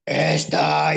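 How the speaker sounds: "Esta" in a big booming voice from the grave; booming original voice. Shown as a demonstration. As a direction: boom out "Esta" loud and hollow. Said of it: "me sacó un vocerón así, como de ultratumba".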